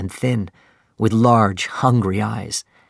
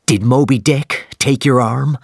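excited; 3 semitones higher than usual. Acted. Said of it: "Captain Ahab asked excitedly".

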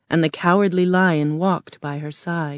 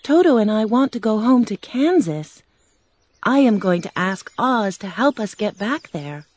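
put-on higher girlish Dorothy voice; a homesick little girl, pitched up; young girl Dorothy; 4 semitones higher than usual. Dorothy telling the lion she wants to go home, girlish.

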